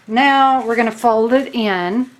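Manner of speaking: slow drawn-out Southern drawl on the fold; southern accent. Real, not acted. Crafter showing the fold, Southern drawl slipping out. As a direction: let the Southern twang slip out. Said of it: "Boy, I sounded southern there".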